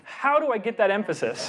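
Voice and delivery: "How" set high, the rest stepping down; stressed "How", falling finish; emphatic question. Shown as a demonstration. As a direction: lean on "How" to drive the question. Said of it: "you emphasize the question".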